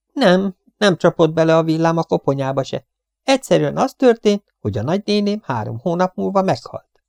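high-pitched insistent gossip; chattering cleaning woman, correcting. A narrator's reading. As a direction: set them straight on the family tale. Voices the talkative cleaning woman. (fecsegő takarítónő, magas hangon helyesbít)

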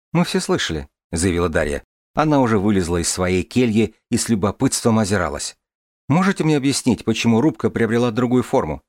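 put-on light, lively girl's voice; young woman voice. Дарья говорит. (голос девушки)

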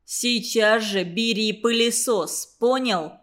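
медленно, с угрозой; давить каждым словом, не спеша; зловеще. Acted. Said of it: "зловеще сказал". (зловещий приказ)

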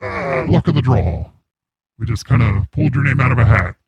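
voice changer voice. Acted. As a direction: voice run through a changer. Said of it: "It's just a voice changer".

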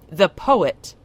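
"The poet" pressed out loud and firm; with emphasis. Acted. Stern troll lecturing the witch, with emphasis on "The poet". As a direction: lean hard on "The poet". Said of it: "he said with emphasis".

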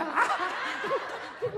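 a high burst of laughter, no words. Real, not acted. Laugh after acted prayer.

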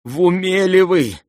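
high, loud startled cry; startled prince. A narrator's reading. Prince nearly leaping from his seat, startled cry. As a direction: jump up in shock. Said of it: "чуть не вскочил князь с места".

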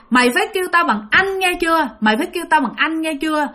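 lightly acted bossy little boy; indignant ghost child. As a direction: insist on respect with mild indignation. Ghost boy insists on respectful address.

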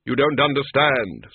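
slow and grave, unhurried; Death's slow, measured voice. Acted. Death greets the tiny Death of Rats, slow and grave. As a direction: speak as a calm figure of Death.

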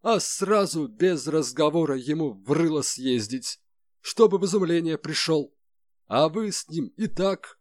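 high, indignant sarcastic rant; through gritted teeth. A narrator's reading. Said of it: "скрипя зубами, произнёс Малинин".

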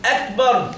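slow "أكبر" with the ك swallowed; lost kaf. Shown as a demonstration. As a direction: show the mistake "أكبر", no breath released on the k. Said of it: "الكاف راح".

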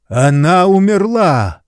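a loud, high wail of shock; anguished exclamation. A narrator's reading. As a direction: cry out as he sees his wife die. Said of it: "воскликнул её муж".

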